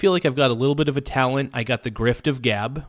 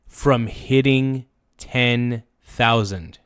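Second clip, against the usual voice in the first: drawn out, every number weighted; slow, weighted countdown to a milestone; slow dramatic countdown; slower than usual. Real, not acted. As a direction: spell the count out slowly for suspense.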